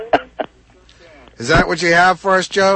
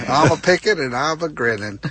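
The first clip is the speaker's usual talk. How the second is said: put-on old prospector. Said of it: "grizzled prospector response".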